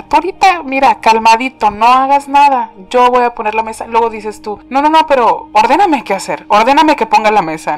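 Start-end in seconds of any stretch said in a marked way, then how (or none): 0.0-3.9 voicing God. Voicing God calming the believer. 4.7-7.8 pleading believer. Retold or imitated. Voicing the anxious believer.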